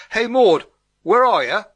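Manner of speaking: loud, high-pitched yell; bellowed over the back fence; roaring call. A narrator's reading. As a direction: holler for a neighbour out of sight. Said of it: "she roared across the adjoining gardens".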